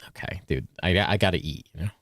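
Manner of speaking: talking through a mouthful of food; mouth full. Real, not acted. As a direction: speak while chewing. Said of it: "talking with his mouth full again".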